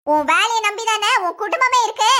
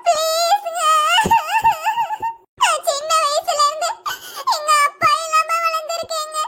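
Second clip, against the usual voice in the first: higher, weepy plea to her husband; tearful pleading; 4 semitones higher than usual. Acted. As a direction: beg him through tears, voice catching. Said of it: "சும்மா அழுது நாடகம் ஆடாத". (அழுகையுடன் கெஞ்சல்)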